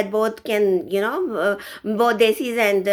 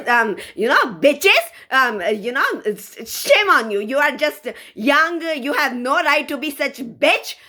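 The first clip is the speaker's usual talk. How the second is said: a little angry; 3 semitones higher than usual. Real, not acted. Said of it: "I got a little angry".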